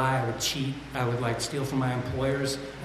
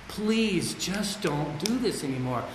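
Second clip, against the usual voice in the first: begging himself; 3 semitones higher, slower than usual. Retold or imitated. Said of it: "I can remember begging myself".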